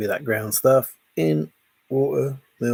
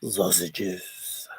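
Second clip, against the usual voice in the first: whisper; 6 semitones lower, 6 dB quieter than usual. Acted. Whispered aside to chat.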